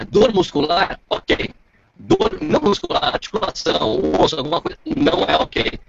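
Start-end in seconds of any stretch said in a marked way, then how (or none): 2.0-5.8 glitchy, choppy call audio; choppy breaking-up audio. Real, not acted. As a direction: voice cutting in and out over a bad connection. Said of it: "tá picotando".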